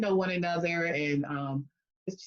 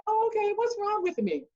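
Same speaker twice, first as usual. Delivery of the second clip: higher, bright mock "oh, okay"; mock surprise; 14 semitones higher than usual. Answering the lady who claims to know her. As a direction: play it as a half-amused challenge.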